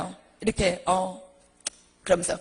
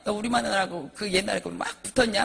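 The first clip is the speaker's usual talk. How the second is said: mock angry accusation; abusive husband; 2 semitones lower, 3 dB louder than usual. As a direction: confront the pastor like a jealous husband. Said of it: "담을 수 없는 소리를 막". (목사에게 따지는 남편의 성난 말투 흉내)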